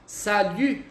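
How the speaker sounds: "salut" with rounded lips on the u; ensino: "salut" com biquinho; French salut. Shown as a demonstration. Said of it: "Pra quem não sabe ainda pronunciar".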